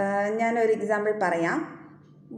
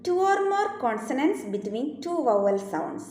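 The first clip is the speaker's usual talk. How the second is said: slow dictation; 4 semitones higher, much slower than usual. Shown as a demonstration. Teacher dictating the second rule to students, very slow. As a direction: rule read out very slowly. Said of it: "second rule".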